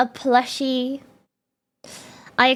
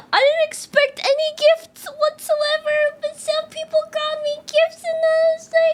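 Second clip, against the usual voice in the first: close to tears; 14 semitones higher than usual. Real, not acted. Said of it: "chat, I'm gonna cry".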